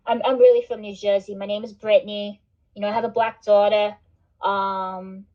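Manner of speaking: mock Jersey girl accent, lightly done; New Jersey accent. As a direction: play a Jersey mom in a Jersey accent. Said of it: "this is me making fun of, uh, people accusing me of being from New Jersey".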